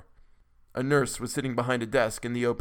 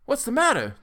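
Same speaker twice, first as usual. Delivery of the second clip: high, louder alarmed question; appalled; 14 semitones higher, 5 dB louder than usual. A narrator's reading. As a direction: demand it in horror.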